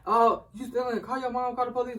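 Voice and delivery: half-yelled retelling of a crowd; mimicked yelling. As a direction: imitate a crowd calling out accusations. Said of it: "all of them is yelling like".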